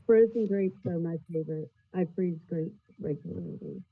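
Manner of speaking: muffled voice, like through a wall; muffled audio. Real, not acted. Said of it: "You sound really muffled".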